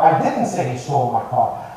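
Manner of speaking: "didn't" stressed as a firm denial. Shown as a demonstration. Coach showing how emphasis changes meaning, stress on "didn't". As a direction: lean on "didn't", let the rest drop. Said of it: "say this sentence a few times".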